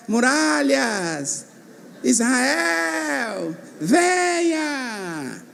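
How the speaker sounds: slow, soft, drawn-out call of Joshua; imagined Joshua. Retold or imitated. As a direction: call the walls down slowly, like a prophet. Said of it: "Já imaginaram Josué?". (Josué chamando, lento e suave)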